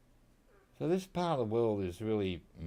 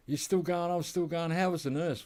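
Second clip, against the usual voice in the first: mock Aussie mate; 9 semitones higher, 6 dB louder than usual. Mock banter, high and loud.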